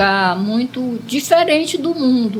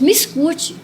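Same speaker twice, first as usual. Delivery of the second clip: higher-pitched, firm command; more energetic; 6 semitones higher, slower than usual. Retold or imitated. Jesus answers the weeping dreamer, more energetic. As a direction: retell an energetic call for attention. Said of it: "mais enérgico".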